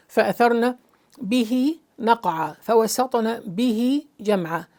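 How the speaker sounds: recite, isolating each بِهِ as its own word; stress on بِهِ. Shown as a demonstration. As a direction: set بِهِ apart with short pauses. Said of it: "instead of the pronoun here, be he".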